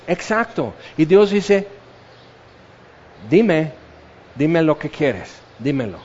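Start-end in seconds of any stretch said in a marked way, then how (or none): 3.3-6.0 low, softening voice of God; gentle invitation. Acted. God answering someone who asks for a miracle, gently inviting. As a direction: invite softly, sinking lower with each phrase.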